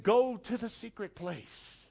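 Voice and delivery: slow, tender invitation; God's gentle voice. Acted. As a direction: ease it out like a calling God. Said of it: "But God's saying".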